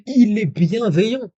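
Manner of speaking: very high, slow, swooping incredulity; slow sing-song disbelief, pitched right up; drawn-out mock indignation. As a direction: stretch every word in mock amazement. Repeats it, drawn out for effect.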